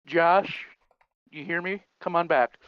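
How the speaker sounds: loud trucker call over CB radio; radio call, crackly and loud. Acted. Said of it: "the final call, uh, by Farmer Kurt over what would have been the C B".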